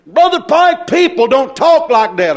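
mock protest. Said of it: "Somebody say".

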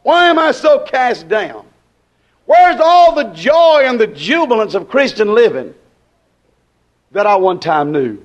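Southern revival sermon delivery; impassioned preaching. Acted. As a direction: preach it as a heartfelt lament. Preaches with rhetorical questions.

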